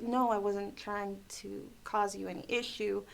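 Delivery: slightly softened, placating retold reply; smooth things over sweetly with a cross customer; mildly sweet reassurance; speaking sweet. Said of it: "I try to speak sweet to them".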